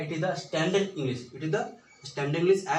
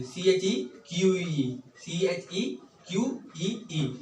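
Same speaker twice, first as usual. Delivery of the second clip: slow spelling; 3 semitones higher, slower than usual. Shown as a demonstration. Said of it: "चिक बोलेंगे".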